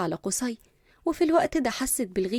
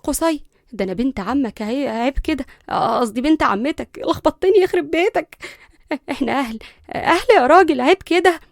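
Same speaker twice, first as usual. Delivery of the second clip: flustered plea, growing louder; fearful; 3 semitones higher, 7 dB louder than usual. A narrator's reading. Girl carried off by her cousin, fearful. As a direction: stumble through frightened appeals to kinship. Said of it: "ليندا قالت بخوف".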